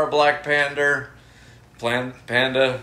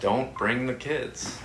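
trailer voice; 6 dB quieter, slower than usual. Pretend. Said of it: "Coming to a theater near you".

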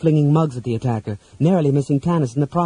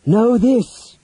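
high, loud hissing warning; hissed threat; 9 semitones higher, 5 dB louder than usual. A narrator's reading. Wizard to goblins beside the weapons, hissing. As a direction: hiss it out as a raised warning. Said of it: "he hissed".

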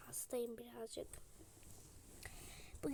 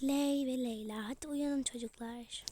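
calling out; 7 dB louder than usual. Pretend. Mother calling kids awake.

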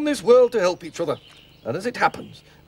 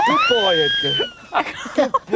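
praising a pet. Real, not acted. Praising the helper like a dog.

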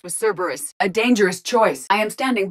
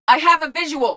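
high-pitched spotting call; urgent callout; 9 semitones higher, 3 dB louder than usual. Acted. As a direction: alert the squad at once. Spotting the enemy.

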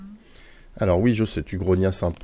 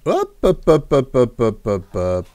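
cheery hop calls; 3 semitones higher, 4 dB louder, slower than usual. Acted. Urging his mount to jump.

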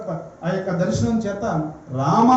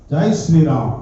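devotional rallying cry; 5 semitones lower, 5 dB louder than usual. Real, not acted. Preacher leading devotees in praise of Rama, rallying cry. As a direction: call out the slogan for the crowd to echo. Leads congregation in a slogan.

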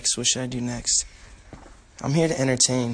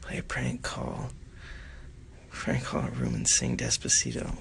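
whispering; 14 semitones lower, 5 dB quieter than usual. Real, not acted. Reading chat, hushed.

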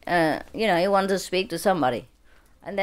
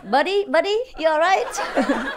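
higher, slow, chuckling friendly call; laughing buddy greeting; 10 semitones higher, slower than usual. Retold or imitated. Soldier greeting his buddy on the phone, laughing. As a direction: greet a pal through laughter.

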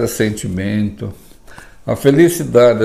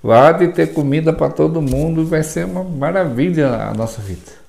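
optimistic talk. Shown as a demonstration. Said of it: "Por que que você não fala assim".

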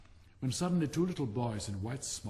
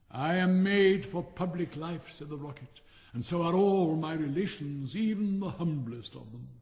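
preen and show off, loving your own voice; pompous Rocket; 2 semitones higher than usual. Acted. Vain firework boasting to the silent Dragonfly.

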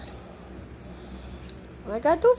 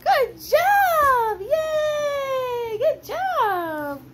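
tearful praise; 12 semitones higher, much slower than usual. Real, not acted. Owner praising her puppy, high and tearful. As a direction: praise through happy tears.

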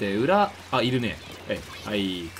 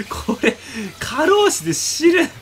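laughing wail; 10 semitones higher, 7 dB louder, much slower than usual. Real, not acted. Complaining about endless painting.

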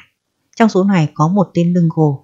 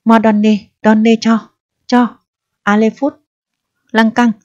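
higher barked orders in fake French accent; 4 semitones higher than usual. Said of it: "Anh trợn mắt quát".

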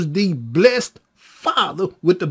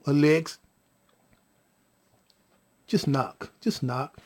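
low, measured, tender talk; soothing father; 4 semitones lower than usual. Retold or imitated. Father talking to the baby in the womb, soothing. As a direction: coax gently, with long pauses.

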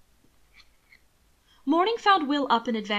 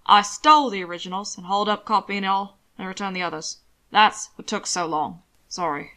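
lightly voiced Zeller figure; 2 semitones lower, 3 dB louder than usual. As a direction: explain yourself, then drop into apology. Zeller explains his theft.

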